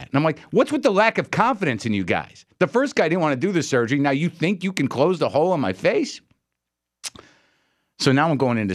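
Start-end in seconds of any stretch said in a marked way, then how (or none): 0.5-6.2 higher-pitched incredulous complaint; mock exasperation; exasperated. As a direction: re-enact a patient challenging unsure doctors. Retold complaint to unsure doctors.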